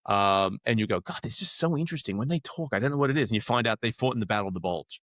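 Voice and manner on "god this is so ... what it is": imitated fascination. Voicing viewers fascinated by actors.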